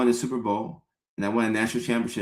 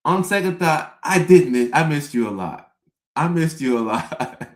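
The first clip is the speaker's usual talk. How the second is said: sudden eager lover. Retold or imitated. Boyfriend changing his tune as she undresses, gushing. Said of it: "I'm like".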